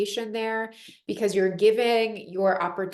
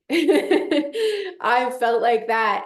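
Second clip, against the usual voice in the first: said through a laugh, slow; 3 semitones higher, 5 dB louder, much slower than usual. Real, not acted. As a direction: laugh while owning it.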